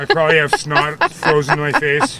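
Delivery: shivering with cold; teeth-chattering cold talk. Real, not acted. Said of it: "I'm covered in snow".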